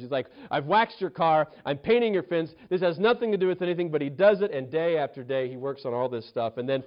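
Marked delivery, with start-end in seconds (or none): 0.5-3.9 mildly exasperated list of grievances; fuming complaint. Retold or imitated. Pupil complains to teacher about the chores, mildly fuming. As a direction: imitate a pupil fuming, with restraint. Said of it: "the smoke coming out of his ears".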